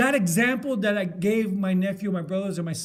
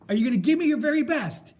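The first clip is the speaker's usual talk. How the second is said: loud, fast, higher-pitched challenge; demanding coach; 5 semitones higher, 5 dB louder, faster than usual. Retold or imitated. Film coach retold, demanding player's commitment. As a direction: push the player for a promise, loudly.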